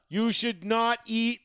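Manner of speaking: slow, even-toned insult; deliberately dull, drawn-out jeer; monotone heckle. Retold or imitated. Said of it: "like, monotone".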